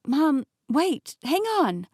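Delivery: loud, high pleading call. Acted. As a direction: yell after her, desperate. Calling after mother pulled away.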